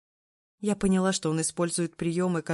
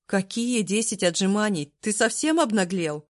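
indignant; 3 semitones higher, 4 dB louder than usual. Acted. Heroine protests push-ups.

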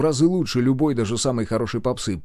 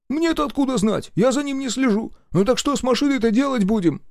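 much higher, defensive workman; dismissive mechanic; 13 semitones higher than usual. Acted. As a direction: shrug it off. Mechanic voiced. (пренебрежительно)

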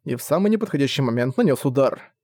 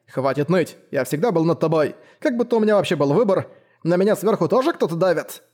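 bickering stone; 3 semitones higher than usual. Acted. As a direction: whine back at the stone below.

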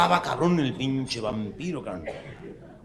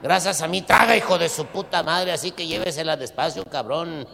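father voice; 4 semitones higher, 4 dB louder than usual. Acted. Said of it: "el papá decía".

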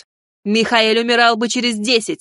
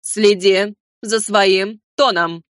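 ordinary delivery

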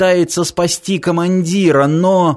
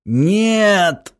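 high, drawn-out cry of refusal; anguished shout; 6 semitones higher than usual. Acted. Semyon seeing his brother fall, anguished cry. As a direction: cry out in horror. Brother sees Anton collapse.

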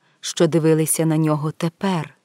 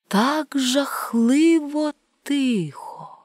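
dread; 6 semitones higher, slower than usual. A narrator's reading. Narrator dwells on dreadful silence.

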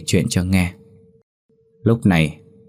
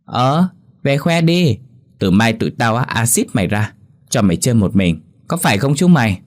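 put-on boy jeering at the crying girl; mocking taunt; 4 semitones higher than usual.

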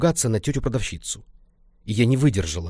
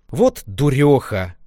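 quiet affectionate scolding; 4 semitones higher, 6 dB louder, much slower than usual. Acted. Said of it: "тихо произнесла бабушка".

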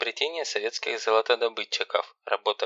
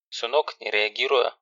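usual speaking voice

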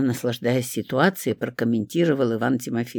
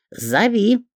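shouted dare; 8 semitones higher than usual. A narrator's reading. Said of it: "закричала Лариска".

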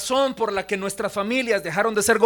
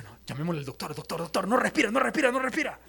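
mock panic; faster than usual. Parent calling the doctor for a baby not breathing, panicked.

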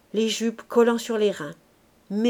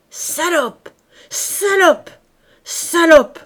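screamed higher and louder each time; furious shout; 6 semitones higher, 7 dB louder, much slower than usual. A narrator's reading. Gervaise screaming at Virginie, beside herself, furious shout. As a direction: scream it, beside yourself with rage. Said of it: "Hurla Gervaise hors d'elle".

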